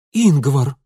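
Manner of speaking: loud alarmed cry of a name. Acted. Anna crying out as the youth falls, loud alarmed call. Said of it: "вскричала Анна".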